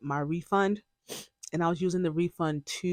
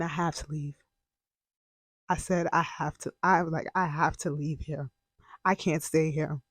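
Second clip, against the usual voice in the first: emotional; 4 dB quieter than usual. Real, not acted. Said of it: "wow, I'm just getting emotional".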